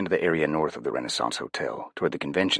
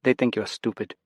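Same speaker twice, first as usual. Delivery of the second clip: amused woman; 7 semitones higher than usual. Acted. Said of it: "hear the smile in her voice".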